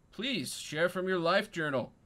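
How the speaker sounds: king's request. Acted. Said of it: "And he says".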